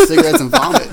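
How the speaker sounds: high voice breaking into laughter; laughing. Real, not acted. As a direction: push through a laugh. Gross punchline, cracking up.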